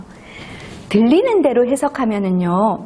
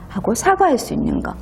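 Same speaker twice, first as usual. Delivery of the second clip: ordinary talk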